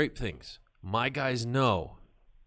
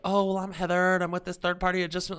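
much higher, louder, rushed mock woman's voice; flustered Heather; 10 semitones higher, 6 dB louder than usual. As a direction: rattle off the excuse, pitched way up. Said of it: "She's like".

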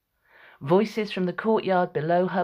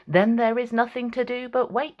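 Alecto; 8 semitones higher, 3 dB louder than usual. A narrator's reading. Alecto's line, pitched far up.

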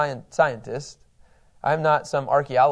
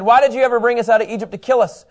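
raised, louder mock grievance; hammed-up accusing gripe, pitched up; grumbling complaint; 5 semitones higher, 5 dB louder than usual. Preacher voicing thirsty Israelites to Moses, grumbling complaint. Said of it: "grumbled against Moses".

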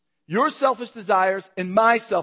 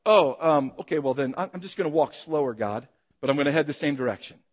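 lower, hesitant half-compliance; mock reluctance; 5 semitones lower than usual. Preacher acting out a half-obedient reply to God, mock reluctance.

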